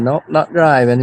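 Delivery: retold Mainer reply; Maine accent. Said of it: "That's my main accent".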